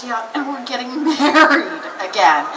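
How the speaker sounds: mom's news broken by a laugh; laughing announcement. Retold or imitated. Mom tells her daughter they are remarrying, laughing. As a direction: giggle through the happy news.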